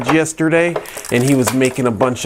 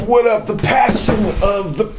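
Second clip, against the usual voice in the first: high mock intro; 12 semitones higher than usual. False start in high voice.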